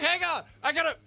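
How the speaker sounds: cutting in, dying to make his point; insisting on a turn in the meeting, high and urgent; eager interruption. Retold or imitated. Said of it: "I'm like".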